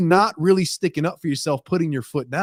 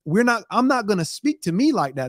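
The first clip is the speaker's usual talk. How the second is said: higher, mildly defiant refusal; putting foot down; 4 semitones higher than usual. Acted. Standing up to your own inner voice, mildly firm. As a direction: stand up to yourself with some oomph. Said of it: "stands up and puts your foot down and says".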